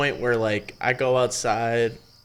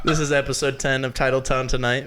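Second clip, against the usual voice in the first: laughing. Real, not acted. Laughing podcast intro.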